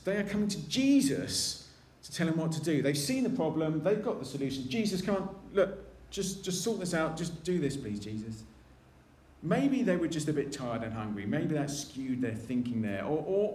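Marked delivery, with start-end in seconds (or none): 4.7-8.4 a hint of pushy, impatient pleading; mild impertinent demand. Disciples telling Jesus what to do, mildly impatient. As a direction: nudge Jesus to just sort it out, lightly. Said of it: "that might be seen as a bit impertinent".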